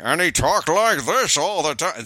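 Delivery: put-on gruff, slow old-movie tough guy; lightly done Bogart-style cartoon orangutan; bad Humphrey Bogart impression. Shown as a demonstration. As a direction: do a terrible Bogey voice. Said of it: "That's a terrible impersonation".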